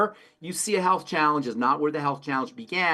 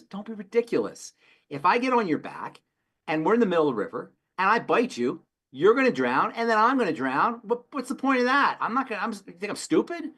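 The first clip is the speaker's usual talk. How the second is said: higher, reasoning scorpion; the scorpion arguing it won't bite, pitched up; 5 semitones higher than usual. Retold or imitated. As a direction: talk the frog round with mock logic. Scorpion voiced in fable.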